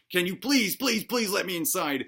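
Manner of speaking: lightly hammed-up begging; mock pleading. Maimed man begging entry at Babylon, mock pleading. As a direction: plead on repeated pleases, half in earnest. Acting out begging at city gate.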